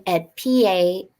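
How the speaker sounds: put-on trying out a Massachusetts accent on HORICON; imitated Massachusetts accent. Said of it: "'cause I'm trying to do your".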